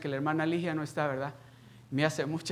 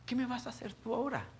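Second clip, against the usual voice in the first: laughing taunt; 9 semitones higher than usual. Retold or imitated. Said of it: "Riéndome".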